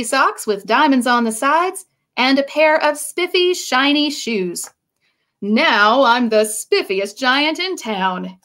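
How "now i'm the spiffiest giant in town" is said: proudly. Acted. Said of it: "he said proudly".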